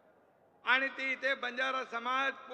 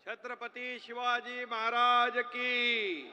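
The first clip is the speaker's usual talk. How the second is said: slow, drawn-out slogan call to the crowd; roaring rallying speech; slower than usual. Real, not acted. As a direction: stretch each word to rally them.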